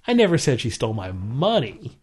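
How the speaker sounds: money lifted at the end; stress on MONEY. Shown as a demonstration. Demonstrating emphasis on money to a co-host. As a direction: land hard on the word money. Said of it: "based on what word you put emphasis on".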